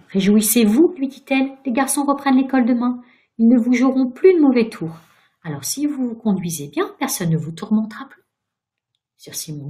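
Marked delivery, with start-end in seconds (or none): 0.1-8.2 put-on higher, louder girl's voice, brightly consoling; cheerful encouragement. A narrator's reading. Virginia consoling the miserable ghost, cheerful encouragement. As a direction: tell good news eagerly.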